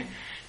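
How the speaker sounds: brief low-volume chuckle; a small, quiet laugh to himself; soft chuckle. Real, not acted. Chuckles after dismissing pointless questions.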